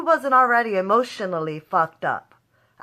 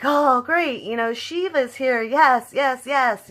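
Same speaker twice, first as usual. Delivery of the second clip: higher, louder gleeful cheer; excited relief; 6 semitones higher, 3 dB louder, slower than usual. Retold or imitated. Fan cheering as Shiva arrives, excited and high. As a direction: cheer like the hero is saved. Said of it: "So I'm like".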